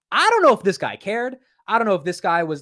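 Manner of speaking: ranting investor, fed up with the CFO; exasperated. Real, not acted. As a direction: throw up your hands at him. Rant about CFO.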